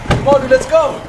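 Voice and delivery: urgent panicked shout, high and loud; zombie. Acted. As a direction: yell to flee in terror. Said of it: "we are gonna do the zombie noises".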